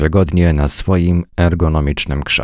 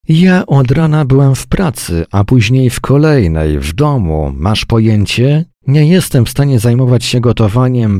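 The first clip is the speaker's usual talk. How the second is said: higher, louder exasperated wife; angry complaint; 5 semitones higher, 3 dB louder than usual. Acted. Wife venting to her husband, high and loud with anger. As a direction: let the frustration burst out.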